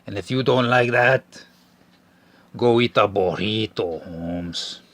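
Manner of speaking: slow, exaggerated mock Hispanic accent; hammed-up Hispanic accent, drawn out; stereotypical Hispanic accent. Host opening the podcast episode in a mock Hispanic accent. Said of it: "in an offensive, stereotypical Hispanic accent".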